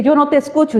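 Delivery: mild mock complaint; imitated complaint. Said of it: "Y tú dices que".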